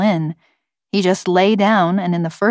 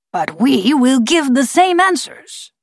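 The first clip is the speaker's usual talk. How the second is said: slow, higher gravelly bird voice; forced, gravelly voice; 8 semitones higher than usual. A narrator's reading. Bird refusing the scientists new answers, slow gravelly voice. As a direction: drag the words out, gravelly and stubborn. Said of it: "gravelly voice".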